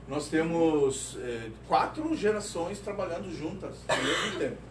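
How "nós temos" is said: slow emphasis. Shown as a demonstration.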